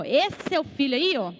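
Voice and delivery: scornful "this son of yours"; contemptuous. Shown as a demonstration. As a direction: spit out the words with disdain. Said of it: "Ele fala assim, ó".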